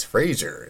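"Fraser" with a z, rhyming with razor; corrected pronunciation. Retold or imitated. Actor correcting his co-star, "Fraser" said with a z. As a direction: say "Fraser" as FRAY-zer. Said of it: "like the razor".

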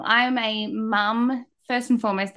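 ordinary talk

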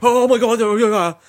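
slow, high and loud burst of relief; hammed-up relief at the bank email; excited relief. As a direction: gasp it out, thrilled. Bank email finally arrives.

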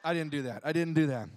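laughing it back. Real, not acted. Pastor to laughing congregation, retracting the joke through laughter.

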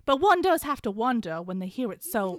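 a hammed-up Southern gossip tone; Southern accent. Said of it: "Shen Yun is gonna be played by myself".

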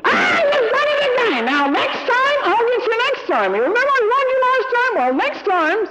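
very high, frantic threatening parent; screaming scolding parent. Acted. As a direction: screech empty threats like a frazzled parent. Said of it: "You don't have to shout and scream".

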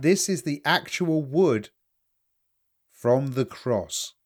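very slow, weighty pronouncement; solemn psychic lady. Retold or imitated. Psychic lady showing the cross wood, mildly mock solemn. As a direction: drag it out with mild gravity. Psychic insisting on relic, acted.

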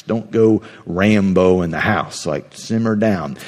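lightly voiced level-headed uncle; calm reassuring. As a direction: talk a panicking relative down gently. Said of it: "your prefrontal cortex like".

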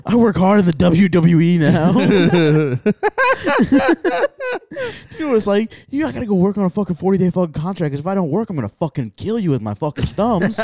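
lightly voiced drunk jock ranting about his dad; a hint of a sloppy washed-up athlete griping; drunk bitter Gronk rant.

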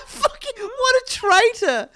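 high, slow words through laughter; can't stop laughing; real laughing fit; laughing hard. Real, not acted. Cracking up mid-rant.

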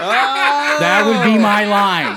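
loud, slow, laughing boast; laughing through it. Real, not acted. Bragging about his pickup line, laughing hard. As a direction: crack up while saying it.

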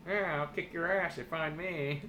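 rowdy threatening teddy voice; belligerent drunk. Pretend. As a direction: growl a cocky threat.

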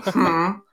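demonstrative mock hum; imitated hum. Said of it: "Just like this".

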